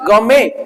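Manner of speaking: गौ में with no T sound at the end; silent T. Shown as a demonstration. Teacher showing students the silent T in गौ में. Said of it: "टी silent है".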